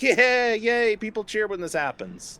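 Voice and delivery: high, drawn-out mock glee; childlike cheering. Imitating himself at eight getting cheers, high gleeful drawl. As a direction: play a delighted little kid.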